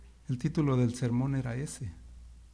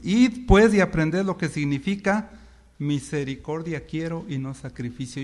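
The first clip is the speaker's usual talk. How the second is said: repeated louder; 5 dB louder than usual. Shown as a demonstration. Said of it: "Lo voy a repetir".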